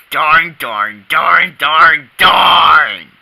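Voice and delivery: building frustrated darns; frustrated cursing. Acted. Frustrated repeated curse.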